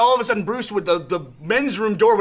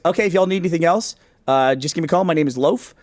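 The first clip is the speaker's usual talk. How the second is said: straight-faced waiter; 3 semitones lower than usual. Retold or imitated. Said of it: "say it with a straight face".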